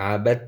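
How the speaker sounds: "আবাত" going straight to t, no d; merged dal. Shown as a demonstration. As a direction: say "আবাত" with the d silent into t. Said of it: "সরাসরি তার উচ্চারণ হবে". ("আবাত" দাল বাদ দিয়ে সরাসরি তা)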